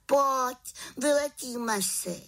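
high, eager little witch. Acted. Witch invites raven to fly, high eager voice.

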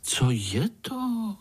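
put-on small boy daring to ask; lightly voiced curious youngster; curious little one. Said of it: "se nestyděl zeptat".

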